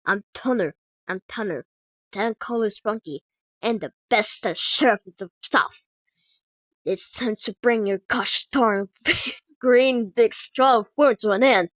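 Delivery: Texan sheriff building to loud bravado; Texan cowboy accent. Acted. Cowboy sheriff challenges the green giant, bold Texan accent. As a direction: announce yourself as a Texan cowboy lawman. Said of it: "in a heavy Texan cowboy accent".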